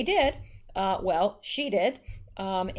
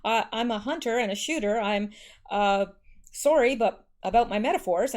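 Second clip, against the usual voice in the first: stumbling, flustered quote with false starts; mildly acted stammering apology; stuttering apology. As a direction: read out a halting, apologetic backpedal. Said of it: "McCain said while stuttering".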